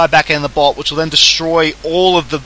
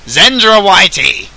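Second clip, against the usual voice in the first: put-on British accent; 4 semitones higher, 5 dB louder, slower than usual. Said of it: "I'm turning partially British in my accent".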